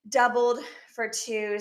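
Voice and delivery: slightly out of breath; winded, short of air; being squeezed. Real, not acted. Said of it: "it sounds like I just did the workout of my life".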